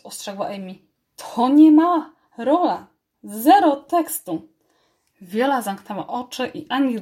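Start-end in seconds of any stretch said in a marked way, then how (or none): 1.2-4.5 stern reminder. A narrator's reading. Amy scolding the mouse.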